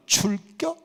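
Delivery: short, high Chungcheong question; Chungcheong dialect. Shown as a demonstration. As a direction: boil it down to a terse Chungcheong invitation. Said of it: "충청도 사람들은".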